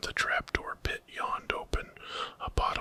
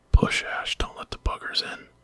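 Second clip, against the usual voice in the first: strained grunt; 7 dB louder than usual. Acted. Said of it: "Clara grunted".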